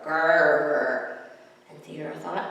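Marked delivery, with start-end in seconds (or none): 0.0-1.2 low mock growl "Grrr"; tiger growl. A narrator's reading. Tiger growls at Theodore, playful low growl. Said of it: "it growled at Theodore".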